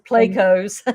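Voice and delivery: Plecos with a long ay vowel, PLAY-kos; Annette's pronunciation. Retold or imitated. Friend quoting Annette's PLAY-kos pronunciation. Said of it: "As, as Annette says".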